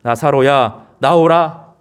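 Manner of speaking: loud, measured summons; 큰 소리로 부름. Retold or imitated. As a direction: read it as a commanding call to Lazarus. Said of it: "큰 소리로". (큰 소리로 불러내듯)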